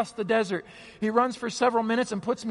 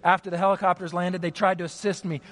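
ordinary delivery

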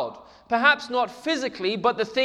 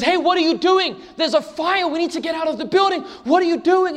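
urgent plea; 8 semitones higher than usual. Acted. Woman urging fireman to leave.

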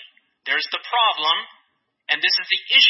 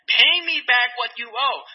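slow, raised-pitch demand; stern demand; 4 semitones higher, 3 dB louder than usual. Acted. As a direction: demand it, weighting each word. Acted demand while assaulting fellow servant.

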